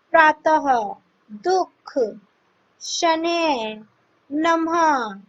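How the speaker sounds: शनैः ends with a light breathy हा jerk; visarga examples. Shown as a demonstration. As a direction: give a light puff of हा at the end of नमः. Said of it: "हा को हल्का सा झटका देकर". (अंत में हल्का सा हा झटका देकर)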